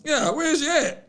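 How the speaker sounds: high-pitched, hammed-up New Orleans accent; bad New Orleans accent. Host teasing producer who hung him out, mock New Orleans accent. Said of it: "The worst New Orleans accent".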